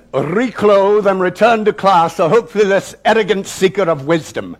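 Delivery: stern headmaster passing sentence; pitiless calm. Acted. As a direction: pronounce judgment firmly, without any sympathy. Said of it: "he said with a calm devoid of anything remotely resembling human understanding".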